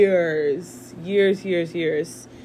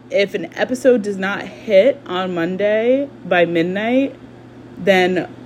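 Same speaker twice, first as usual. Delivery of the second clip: mock dramatic stakes; 6 dB louder than usual. Joking about a punishment.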